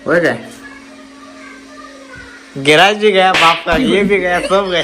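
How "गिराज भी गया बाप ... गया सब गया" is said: loud, hammed-up Bollywood tragedy line in Hindi; mock filmy lament. Father mourning his spilled tea, hammed-up filmy lament. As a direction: wail it like a film hero who has lost everything.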